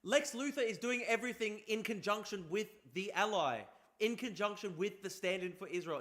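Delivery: loud, high-pitched arguing; heated rebuttal. Real, not acted. Streamer arguing back at a video about a film villain, heated.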